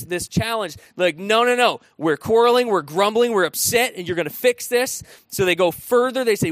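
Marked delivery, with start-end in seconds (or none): 1.2-5.0 defiant. Retold or imitated. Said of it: "they just charge through".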